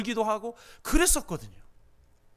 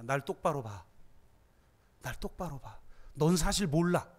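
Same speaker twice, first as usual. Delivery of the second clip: much softer and lower, steady; soft firm insistence; 6 semitones lower, 6 dB quieter than usual. Acted. Therapist making the student look at him, softly. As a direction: hold his gaze and insist gently. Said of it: "therapist insisting, quietly".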